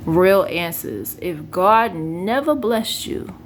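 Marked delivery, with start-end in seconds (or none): 0.1-1.2 slow, insistent "Real answers"; insistent emphasis. Real, not acted. Demanding honest replies from her viewers, slow and insistent. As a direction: drag out "Real" to make the demand stick. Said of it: "I want real answers only".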